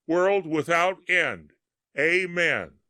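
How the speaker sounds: called out high and loud, a little absent; a soldier half-shouting a prayer as he fires. A narrator's reading.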